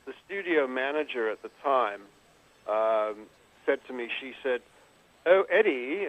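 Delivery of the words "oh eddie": lightly posh English lady voice; a hint of a genteel English woman; English accent. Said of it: "in her lovely little English voice".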